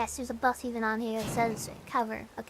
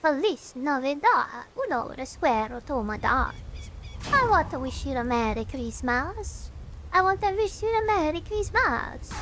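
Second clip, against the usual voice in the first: bad Count Chocula accent. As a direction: croon a Christmas song like a cartoon Transylvanian count. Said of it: "a really bad Transylvanian, like, Count Chocula accent".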